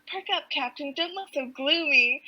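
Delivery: lightly voiced young hero cheering someone up; encouraging. Hero telling the gloomy captain to perk up, lightly encouraging.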